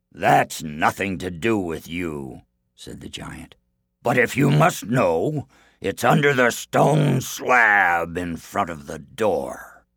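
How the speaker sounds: slow, loud giant voice. Acted. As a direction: boom slowly like a giant. Giant answers.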